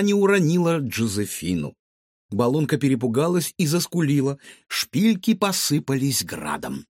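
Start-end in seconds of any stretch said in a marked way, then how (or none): none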